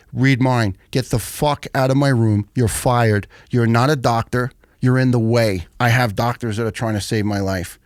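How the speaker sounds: firm, emphatic mock telling-off; acted-out anger, forceful but controlled; retold angry dismissal. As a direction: re-enact throwing the doctor out.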